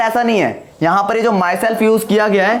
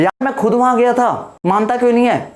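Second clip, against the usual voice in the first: insisting; 5 semitones higher than usual. Retold or imitated. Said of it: "अगर तुम पर कोई भरोसा ही नहीं कर रहा".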